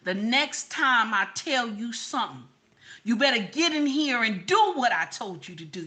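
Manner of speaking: a sassy demo of telling someone off; bossy demand. Shown as a demonstration. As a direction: show them how it's really said. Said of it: "See, watch this".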